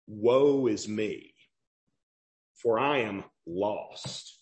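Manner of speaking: low, slow, heavy voice of a man undone; Isaiah's lament. Acted. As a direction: let each line sink in despair. Preacher voicing Isaiah's lament.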